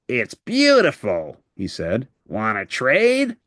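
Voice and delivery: slow, gruff grouch voice; grouchy Oscar. Acted. Oscar the grouch eyes Bert's broken teapot, slow gruff voice. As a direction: relish the broken junk like a grouch.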